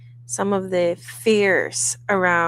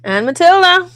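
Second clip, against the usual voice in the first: excited intro; 10 semitones higher, 9 dB louder than usual. Real, not acted. Host announcing herself at show start.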